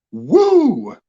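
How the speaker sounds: high cheer; a quick happy whoop; excited whoop. Real, not acted. Streamer cheering again.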